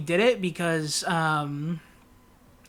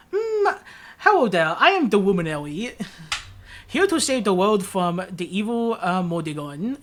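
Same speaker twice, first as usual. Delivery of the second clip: hero voice. Retold or imitated. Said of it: "Hello Princess voice for the main character".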